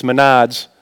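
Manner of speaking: "Menards" with Minnesota vowels; Minnesota accent. Shown as a demonstration. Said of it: "I think it's from Minnesota".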